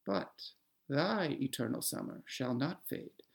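slow, measured recital with long pauses between lines; poem reading. Acted. Host reading the sonnet aloud for the listener, measured poem recital. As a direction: recite the sonnet with care, letting each line land.

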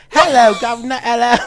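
mock British street-urchin accent; tentative hammed-up British accent; Oliver Twist. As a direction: try out a put-on British accent. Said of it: "your Oliver Twist voice".

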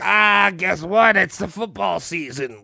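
hammed-up pop star addressing a crowd; a singer. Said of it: "when a singer was like".

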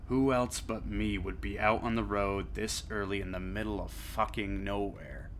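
tired hardboiled narrator, understated; noir detective. A narrator's reading. First-person noir story narration.

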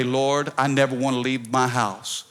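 low-pitched, subdued prayer; earnest prayer. Acted. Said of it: "I pray".

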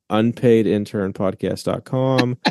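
slow, deliberate plug read; slow announcer. Real, not acted. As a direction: spell it out slowly.

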